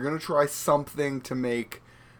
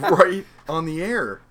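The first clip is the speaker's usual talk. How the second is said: laughing; 6 semitones higher, 6 dB louder than usual. Real, not acted. Laughing at co-host breastfeeding.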